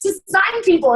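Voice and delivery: high, sheepish laughing excuse; sheepish mock excuse to the principal; laughing apology. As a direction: apologise while half laughing at yourself. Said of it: "And I'm like".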